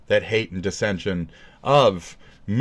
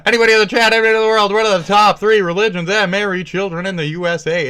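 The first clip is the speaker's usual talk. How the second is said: loud, high shout to the crowd; mock-excited, high-pitched yelling; hyped-up quizmaster; 11 semitones higher, 9 dB louder, faster than usual. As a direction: belt out the question like a game-show host. Hyped-up quiz question to the chat.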